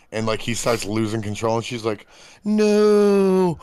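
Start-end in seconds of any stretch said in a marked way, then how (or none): 2.4-3.6 high mock-excited squeals of oh; imitating excited passenger. Friend mimics thrilled passenger in skidding car, high squeals. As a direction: mimic the girl squealing while the car skids. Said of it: "she sounds like she's, like, really excited".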